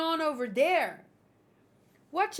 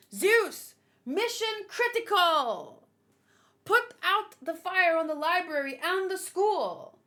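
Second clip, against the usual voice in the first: commanding Nami; 4 semitones higher, 4 dB louder than usual. Acted. Reading Nami's command.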